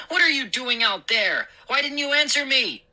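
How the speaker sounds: high, heated scolding; angry yelling. Acted. Father catching son outside at night, angry yell. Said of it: "Dad screamed".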